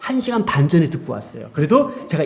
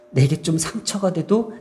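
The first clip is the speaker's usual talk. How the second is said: ordinary delivery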